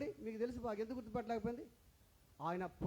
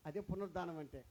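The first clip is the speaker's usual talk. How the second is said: quiet; 7 semitones lower, 8 dB quieter than usual. Acted. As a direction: drop the voice low and soft. Repeated key line, first quietly.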